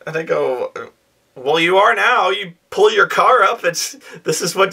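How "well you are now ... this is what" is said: dm voice. Retold or imitated. DM voices himself to player.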